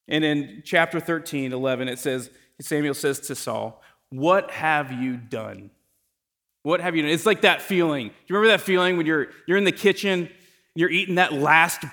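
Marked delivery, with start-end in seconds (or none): 4.1-5.7 drawn out, heavy disbelief; slow, stunned question. Retold or imitated. Samuel confronting Saul, first time. 6.6-7.1 snappier, at normal pace; quick repeated rebuke. Retold or imitated. Samuel repeats his rebuke to Saul.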